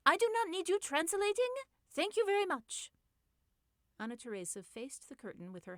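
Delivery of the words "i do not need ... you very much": much higher and louder, cutting her off; indignant shout. Acted. Anna Teresa shouting at Birgit to stop translating. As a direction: slap down the unwanted translator.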